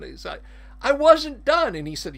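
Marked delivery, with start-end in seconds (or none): 0.8-1.7 high, loud outraged protest; indignant villain. Retold or imitated. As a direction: squawk it like a wronged bad guy.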